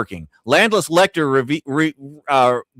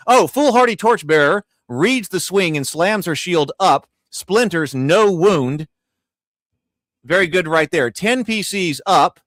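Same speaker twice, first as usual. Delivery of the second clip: sports commentator; 3 semitones higher than usual. Acted. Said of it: "Tomocrat says I sound like a sports, uh, col-, uh, commentator".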